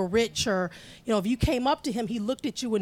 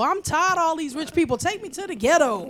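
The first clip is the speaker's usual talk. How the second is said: weary boss request; 5 semitones higher, 3 dB louder than usual. Retold or imitated. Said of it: "He'll be with the high and mighty all day and go".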